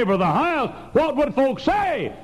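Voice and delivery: a timid member fretting over what people think; mock worried churchgoer. Mocking objector's voice.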